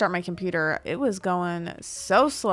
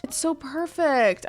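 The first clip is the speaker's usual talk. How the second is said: higher pitch, swooning over it; gushing higher; 7 semitones higher than usual. Real, not acted. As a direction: sigh it out like a fan in love.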